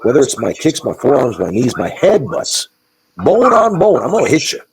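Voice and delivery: imitating Carl's threat. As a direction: play the tough trainer promising to hit with everything. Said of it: "Carl had that same kind of mindset where it's like".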